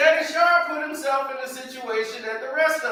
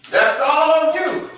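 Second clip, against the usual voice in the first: louder, punching the word all; louder emphatic; 4 semitones higher, 5 dB louder than usual. Real, not acted. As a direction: push all on you harder, louder. Repeated louder.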